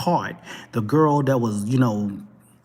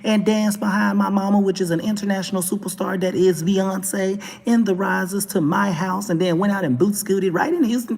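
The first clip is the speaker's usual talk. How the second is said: lightly voiced boasting twelve-year-old, a little higher; Blue Ivy; 5 semitones higher than usual. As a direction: casually brag like a kid answering a question. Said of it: "Hey, Blue Ivy, twelve-year-old girl".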